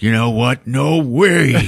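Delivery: rising, mock-defiant refusal; acted defiance. Man in the film finding his resolve, acted defiance. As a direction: build to an indignant refusal.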